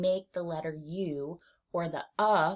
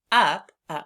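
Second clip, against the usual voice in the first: "up" said louder; stressed up; 8 dB louder than usual. Shown as a demonstration. Teacher stresses "up" for the class. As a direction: punch "up". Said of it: "like the word up".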